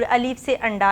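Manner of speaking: अलिफ से अंडा read with से, the wrong way; wrong reading for contrast. Shown as a demonstration. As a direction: say से after अलिफ. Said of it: "ऐसे नहीं पढ़ना हम लोगों ने".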